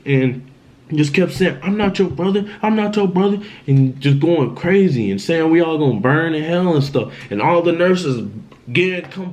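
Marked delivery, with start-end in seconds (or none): 1.6-3.4 lightly imitated possessed brother; raised pitch, repeated like a possessed chant; retold demonic voice. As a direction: insist in a higher mock-demonic voice. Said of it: "a different demonic type voice".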